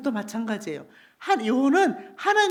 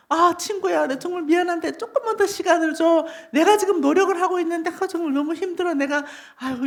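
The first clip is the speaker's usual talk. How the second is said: pleading; 3 semitones higher than usual. Acted. Poor debtor begs his friend for more time, pleading. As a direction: plead apologetically for a little patience.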